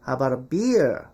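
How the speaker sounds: "How about a beer" run together as "habara beer"; linked native reduction. Shown as a demonstration. Teacher offering beer instead of coffee, linked native pronunciation. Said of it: "이렇게 발음한다고".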